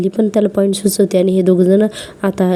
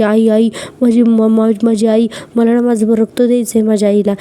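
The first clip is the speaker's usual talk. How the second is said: mock dramatic wail; 3 semitones higher than usual. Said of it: "drama करायला मुद्दाम".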